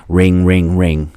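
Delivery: spoken "ring, ring, ring"; imitated intercom ring. Caller rings the intercom again, imitated ringing. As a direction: mimic a buzzer ringing in words. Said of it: "I ring again".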